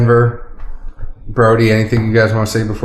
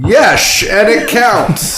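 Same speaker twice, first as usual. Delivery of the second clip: much higher, slow Scottish movie-star impression; Sean Connery voice; 11 semitones higher, slower than usual. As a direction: put on a Scottish brogue. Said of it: "That was like Sean Connery".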